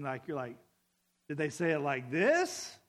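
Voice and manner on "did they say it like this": louder take with the question rising at the end; one possible tone. Shown as a demonstration. Reader testing a text's tone, rising question. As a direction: try one tone, lifting the end. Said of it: "you can't interpret tone".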